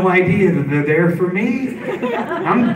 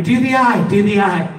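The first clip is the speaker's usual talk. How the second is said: cop's higher-pitched urging; mock yell, pitched up; retold yelling; 4 semitones higher, 4 dB louder than usual. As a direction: imitate cops calling out a request. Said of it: "Cops yelling at me".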